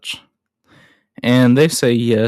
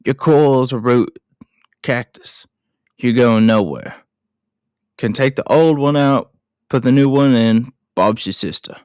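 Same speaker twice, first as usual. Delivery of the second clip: Mick Taylor. Acted. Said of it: "when Mick comes back and says".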